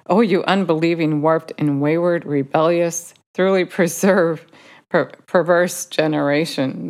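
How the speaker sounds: mildly exasperated quoted rebuke; frustrated. Retold or imitated. Jesus answering the disciples with a rebuke, mildly frustrated. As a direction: lightly voice a frustrated scolding. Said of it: "So he sounded rather frustrated".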